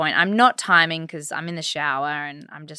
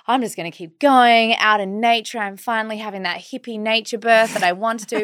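giddy excitement; 4 semitones higher than usual. Retold or imitated. Joyful hippie birth plan.

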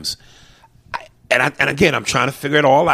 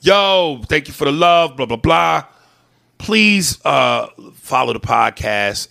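voice message pitch; 3 semitones higher, 5 dB louder, slower than usual. Retold or imitated. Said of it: "I'll record a voice message".

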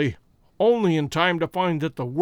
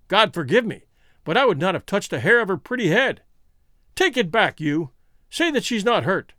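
agitated; 3 semitones higher than usual. Acted. Desperate man denying injury.

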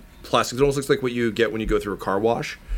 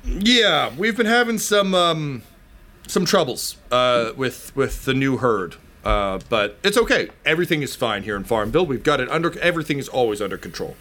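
nervous farmer; 3 semitones higher than usual. Acted. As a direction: cover up the trouble with a nervous smile.

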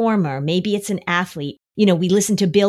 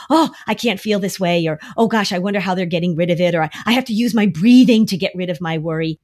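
fast, louder anxious rush; anxious fretting; 4 dB louder, faster than usual. Shown as a demonstration. Showing kids the wrong language, anxious. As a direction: rush the words in worry. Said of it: "instead of that language".

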